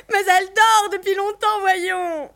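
high, loud, falsely amused mother voice; hateful, dismissive mother. A narrator's reading. Mother telling guests her daughter sleeps, detestably dismissive. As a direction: brush them off in a high, simpering voice. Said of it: "sa mère répondrait avec son petit rire détestable".

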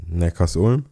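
Neckarsulm as Neckars-Ulm, slow, questioning; tentative guess at Neckarsulm with a rising end; hesitant pronunciation. Shown as a demonstration. Asked by co-host how it is said, hesitant guess. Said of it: "wie spricht man Neckarsulm aus?".

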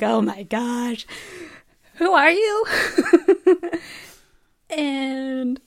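overwhelmed and pleading, playfully; mock amazement. Reacting to Cicely's cheekbone remark, high amazed pleading. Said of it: "I'm like".

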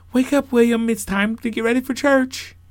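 high, loud wake-up call; parent waking a child. Acted. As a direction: call a sleeping child up for church.

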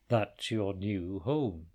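slow, low giant voice. Acted. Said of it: "said the giant".

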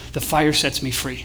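slow, low and soft; hushed, measured mantra; quiet declaration. Shown as a demonstration. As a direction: say it slowly, like a meditation. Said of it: "that you just say".

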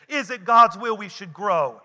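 loud, emphatic preacher's question; with conviction. Shown as a demonstration. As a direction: ask it with full conviction. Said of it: "say it with a conviction".

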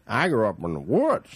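attempted rural Canadian driver's accent; backwoods Canadian accent. Actor imitating a driver from the woods, backwoods accent. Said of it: "I'm trying to do his accent".

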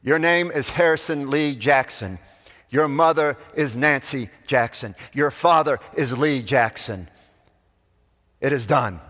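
proclaiming judge. Retold or imitated. Preacher as judge declaring the adopted baby's name, lightly proclaiming. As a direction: pronounce it like an official ruling. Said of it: "And the judge said".

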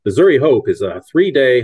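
punchy announcer opening. Shown as a demonstration. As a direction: launch it like a promo. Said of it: "announcer voice".

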